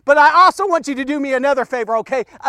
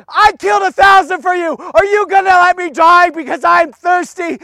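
mildly angry Samson; 3 semitones higher, 3 dB louder than usual. Retold or imitated. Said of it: "He says, he's mad".

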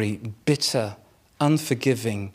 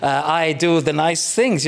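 smug romantic guy. Retold or imitated. Husband mocking his old romantic self, lightly smug. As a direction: play a mild mock of the nice-guy husband. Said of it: "this kind of".

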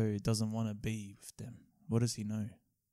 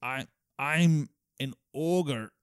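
slow, higher, louder ogre voice passed off as English; mock ogre voice; 4 semitones higher, 5 dB louder, much slower than usual. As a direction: ham up a big ogre, drawing it out slowly. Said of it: "my best English accent?".

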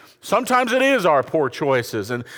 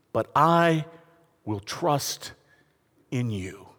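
fading trust; 6 semitones lower, 6 dB quieter, slower than usual. Acted. Quoting psalm's final trust.

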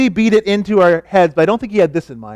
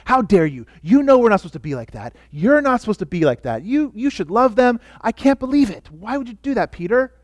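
rising indignant scolding, pitch climbing near the end; stern warning; 4 semitones higher, 3 dB quieter than usual. Retold or imitated. Paul rebuking Peter to his face, rising stern indignation. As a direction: scold him as if you can't believe it. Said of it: "a stern warning".

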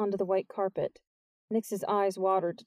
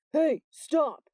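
sharp, higher-pitched shout to halt; urgent call; 7 semitones higher, 4 dB louder than usual. Acted. Jordan confronting the intruder, urgent call. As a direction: call out to stop someone getting away.

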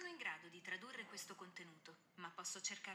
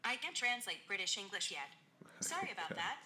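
phone speaker; 5 semitones higher, 13 dB quieter than usual. Real, not acted. Siri assistant voice replying.

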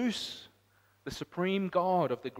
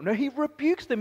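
higher, louder, pressing the point; emphatic preacher; 11 semitones higher, 6 dB louder than usual. Acted. Preacher to the congregation, raised emphatic. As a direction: drive home that he rebukes.

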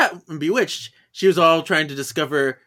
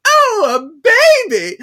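mock surprise; 7 dB louder than usual. Neighbor's exaggerated surprise.

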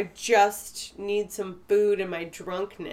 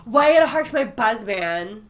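put-on louder tipsy party-girl whine; drunk girl voice; 3 dB louder than usual. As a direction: play the drunk girl complaining. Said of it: "Do I sound like a drunk girl".

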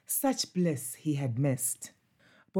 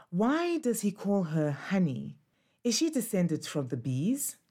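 put-on a slightly higher, curious young puppy; puppy Bobo voice; 3 semitones higher than usual. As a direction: ask it like a wide-eyed pup. Puppy Bobo asks about honey.

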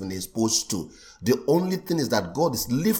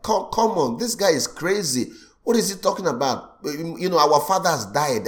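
higher, mock-incredulous objection; raised pitch, acted disbelief; incredulous retort; 5 semitones higher than usual. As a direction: act out a baffled listener scoffing at the claim. Disbelieving crowd reacting to Jesus' claim.

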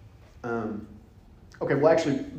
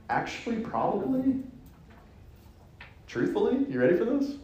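teasing hush; 4 semitones higher, 5 dB quieter than usual. Real, not acted. Teasing build-up to a reveal.

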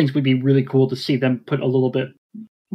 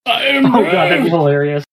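rowdy jeering pub banter; 4 semitones higher, 5 dB louder than usual. Real, not acted. Reacting to the joke voice.

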